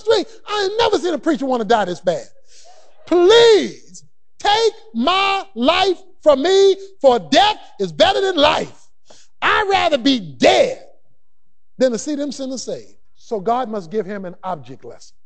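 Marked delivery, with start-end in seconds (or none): 3.1-13.0 despairing plea. Acted. Jonah begging to die.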